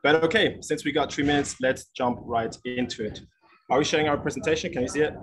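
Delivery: airport noise behind the voice; speaking from a busy airport; in an airport terminal. Real, not acted. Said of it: "We're at the airport right now".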